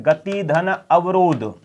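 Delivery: गति धन अवरोध said slowly, pieces apart; slow breakdown. Shown as a demonstration. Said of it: "शब्द बनता है गत्यवरोध". (गति धन अवरोध को धीरे-धीरे बोलना)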